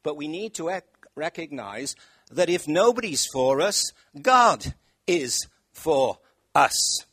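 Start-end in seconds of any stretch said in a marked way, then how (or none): 2.3-7.0 booming, slow and louder on God is for us; preaching at full force. Real, not acted. Preacher booming to the congregation, loud and slow. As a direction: drive it home to the congregation. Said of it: "preaching at full force".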